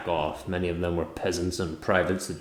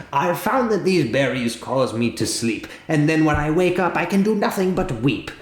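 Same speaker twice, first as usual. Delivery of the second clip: rising higher toward weep, mildly hammed; bug's lament; 7 semitones higher, 3 dB louder than usual. Bug confessing the berries make him weep, climbing higher. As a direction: climb higher on each phrase, a mock lament. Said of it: "he says".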